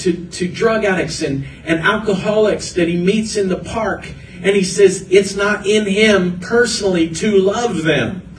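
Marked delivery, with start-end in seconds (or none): 5.1-8.3 imitating a preacher's fervor, pitched higher; higher, earnest quoted passion; passionate retelling. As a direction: retell it with rising conviction. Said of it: "he said it with such passion".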